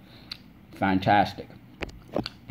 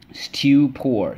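syllable tapping; 4 semitones higher, 3 dB louder than usual. Shown as a demonstration. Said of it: "Let's go".

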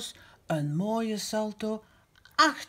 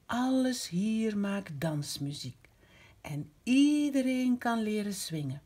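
story reading. A narrator's reading. Grandma reading aloud to Rozemieke, gentle rhythmic narration. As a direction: lull the child along the rhymes. Reads rhyming story passage.

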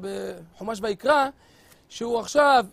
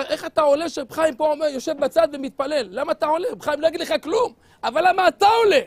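rising indignant rebuke, louder at the end; scolding; 4 semitones higher, 4 dB louder, faster than usual. Acted. Congregant scolding the young cantor, indignant. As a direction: pile on the reproach until it bursts.

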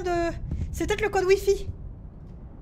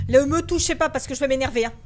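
angry warning; 4 dB louder than usual. Real, not acted. Warning game character to back off.

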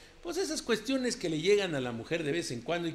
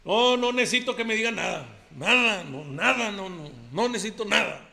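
ranchero macho compadre; 3 semitones higher than usual. Acted. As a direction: play the swaggering macho who denies everything. Macho compadre character monologue. (compadre ranchero presumido y bravucón)

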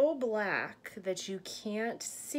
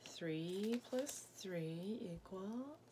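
whispered counting, slow; hushed counting to little listeners; 9 dB quieter, slower than usual. Acted. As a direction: breathe the numbers out softly.

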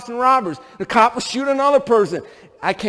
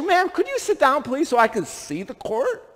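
polite request; 5 semitones higher, 4 dB quieter than usual. Retold or imitated. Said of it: "So I politely asked her".

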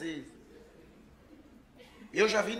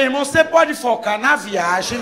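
1 loud slow plea; 8 dB louder than usual. Retold or imitated. Loud plea to focus on the road.

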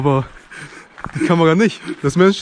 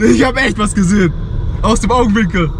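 excited; 4 semitones higher than usual. Real, not acted. Claims he saw something in dark.

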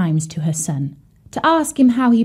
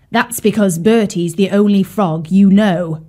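snappish. Acted. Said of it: "he snapped".

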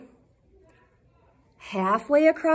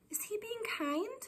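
soft unvoiced whisper; hushed storytime question; 8 semitones higher, 13 dB quieter than usual. Real, not acted. Teacher whispers question to kids.

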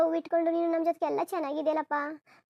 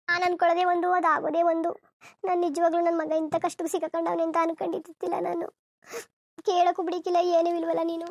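upset loud lament; 4 dB louder than usual. Acted. Mother upset at daughter-in-law.

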